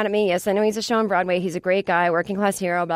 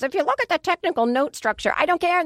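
higher pretend fan voice, then a flat brush-off; mock music snob, then dismissive; 9 semitones higher than usual. Imitating a letter writer, then brushing it off. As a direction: play the pedant, then wave it off. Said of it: "I don't wanna get letters".

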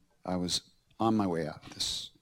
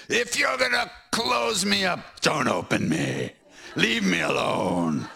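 retold scream; 9 semitones higher, slower than usual. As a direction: shout it out at the sky in despair. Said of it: "screaming at Maharaji at the top".

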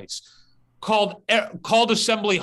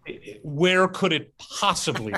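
laughing echo. Real, not acted. Echoing host's joke, laughing.

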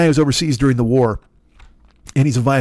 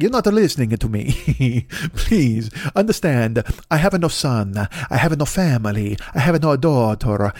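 put-on a light Italian accent on an old shopkeeper. Italian-accented shopkeeper refusing the American soldier, lightly voiced. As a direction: lightly play an Italian violin owner. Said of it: "me competing with Chris Pratt for the voice of Super Mario".

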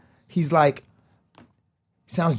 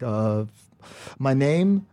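pensive, hesitant; much slower than usual. Retold or imitated. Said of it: "he was all pensive".

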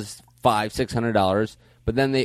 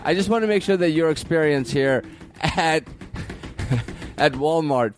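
needy service rep; 7 semitones higher than usual. Acted. Plays needy service rep on phone.

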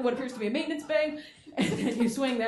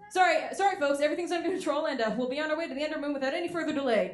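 higher, sheepish captain apology; flustered pilot; 4 semitones higher than usual. Retold or imitated. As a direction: apologize over the intercom. Pilot covering a mishap.

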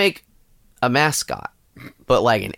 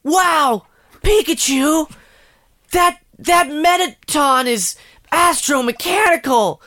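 squeaky high cartoon creature, slow and drawn out; high squeaky Pikachu voice, stretched slowly; 4 dB louder, slower than usual. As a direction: chirp it like a tiny cute pokemon. Voicing Pikachu in a bit.

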